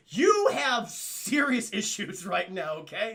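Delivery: slow, emphatic mock scolding. Acted telling-off after the hug.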